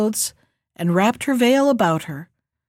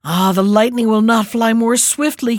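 excited cry; 4 dB louder than usual. Acted. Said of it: "cried he".

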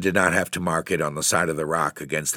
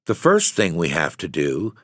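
tenderness; 2 semitones lower than usual. Acted. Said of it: "with infinite tenderness".

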